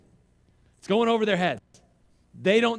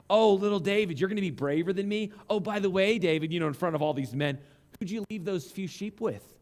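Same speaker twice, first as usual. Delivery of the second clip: mocking older brother. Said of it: "furious at his brother".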